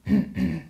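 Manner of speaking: polite light cough. Shown as a demonstration. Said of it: "Just very polite and light".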